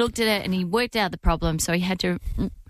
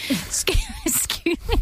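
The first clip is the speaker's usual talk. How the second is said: incredulous quote. Retold or imitated. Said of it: "I'm like".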